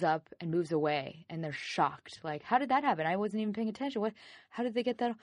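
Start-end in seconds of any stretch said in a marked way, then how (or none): 2.4-5.2 high-pitched bewildered questions; mock shock. Parent shocked that the kid grew up, bewildered. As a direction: imitate a parent caught off guard, pitched up.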